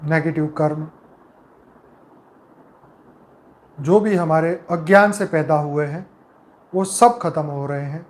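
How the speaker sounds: calm, measured meditation voice with long pauses between phrases; guided meditation. Acted. Leader guiding souls with eyes closed into peace, calm meditative delivery.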